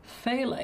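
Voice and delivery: fail said with no T, starting FAY; pronounced FAY-la. Shown as a demonstration. Painter repeating how artists say it, pronounced FAY-l. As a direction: open on a plain F, fail as FAY-l. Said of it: "Here they say fail".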